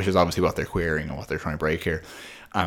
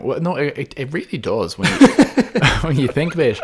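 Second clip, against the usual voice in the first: high-pitched talk breaking into real laughter; laughing insistence; 8 semitones higher, 6 dB louder than usual. Real, not acted. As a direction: insist while cracking up. Cracks up while insisting it does.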